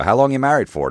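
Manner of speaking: high loud showman question; crowd-work call. Retold or imitated. Comic working the crowd, loud host call. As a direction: call it out across the room. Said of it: "I'll work the crowd".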